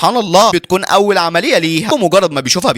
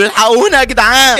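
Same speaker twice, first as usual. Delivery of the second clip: high-pitched acted distress call; cry for help; 9 semitones higher, 4 dB louder than usual. Collapsing man calling bystanders for help, alarmed. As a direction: call out urgently for rescue.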